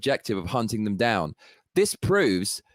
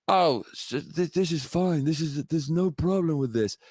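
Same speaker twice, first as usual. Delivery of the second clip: mock Biden, shrugging it off; 4 semitones higher than usual. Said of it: "I can imagine Biden".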